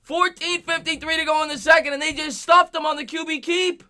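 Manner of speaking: high-pitched, sustained announcer call; high, amazed play-by-play; excited recap. Real, not acted. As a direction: recap the big stop, still buzzing. Recaps the big stop excitedly.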